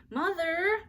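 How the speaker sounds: high, loud urgent call of Mother; urgent child call. A narrator's reading. Ramona stepping into the hall, urgently calling Mother. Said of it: "said Ramona urgently".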